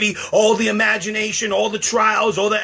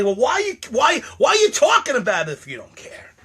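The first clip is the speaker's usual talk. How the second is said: mock questioner; 6 semitones higher than usual. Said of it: "Then you might say".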